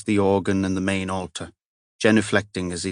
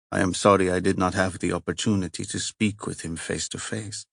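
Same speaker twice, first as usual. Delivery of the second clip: put-on heavy Italian accent; 4 dB quieter than usual. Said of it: "the heavy accent".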